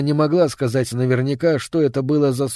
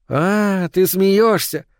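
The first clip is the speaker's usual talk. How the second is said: put-on teasing girl; 6 semitones higher, much slower than usual. A narrator's reading.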